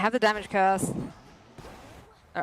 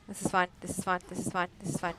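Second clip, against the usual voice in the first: self-soothing; 7 dB quieter, faster than usual. Real, not acted. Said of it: "remain perfectly calm and don't panic".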